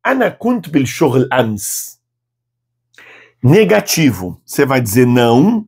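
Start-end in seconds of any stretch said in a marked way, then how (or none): 0.1-2.0 "ana kunt bil shoghl ams" slow but joined up; slow repeat-after-me demo. Shown as a demonstration. Teacher asks students to repeat the whole answer, slowly joined.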